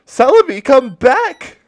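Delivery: high, loud yell calling her back; desperate yell. Retold or imitated. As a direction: scream it up high, begging her to come back. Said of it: "I yelled to my Game Boy".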